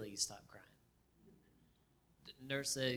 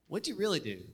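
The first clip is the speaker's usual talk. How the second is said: higher and louder, a pushy nurse demanding the truth; insistent nurse; 7 semitones higher, 7 dB louder than usual. Retold or imitated. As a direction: press hard, like a nurse who won't buy it. Nurse presses him again.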